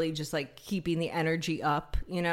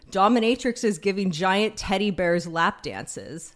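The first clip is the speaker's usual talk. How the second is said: Stefon impression. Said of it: "sounding like Bill Hader as Stefan".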